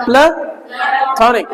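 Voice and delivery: slow "प्लेटोनिक" as "pla", pause, "tonic"; corrected, syllables split. Shown as a demonstration. Teacher drills the corrected word, slowly splitting "प्लेटोनिक" into "pla ... tonic". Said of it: "प्लेटोनिक नहीं".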